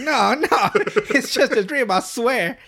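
high, loud mock protest; hammed-up desperate denial; frantic denial. Cartman's frantic denial, acted out.

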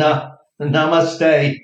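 a smug peaceful farewell; mock serene namaste. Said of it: "I didn't say that out loud".

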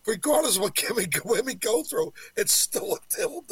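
words pushed out through laughter, fast; laughing retort. Retold or imitated. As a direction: laugh while you make the point.

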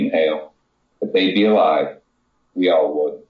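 steady, measured reading of a short story; story narration. Acted. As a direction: read it like you're drawing listeners into a tale. Author reads her flash fiction.

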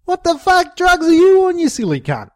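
high, loud furious challenge; angry outburst. Acted. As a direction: spit it at him in disbelief. Bricko confronts Diesel.

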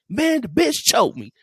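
high, cracking panicked voice of the choked friend. Retold or imitated. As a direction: squeak it out like your voice is breaking. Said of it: "My voice cracked and all".

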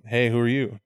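low, quiet, smooth come-on; lightly voiced slick devil at a club; a hint of a lounge lizard devil; smooth Lucifer pickup. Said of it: "and Lucifer's like".

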